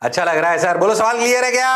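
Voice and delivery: ordinary talk, nothing marked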